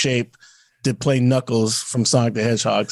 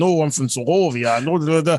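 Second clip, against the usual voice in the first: mock Sokovian accent. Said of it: "the accent".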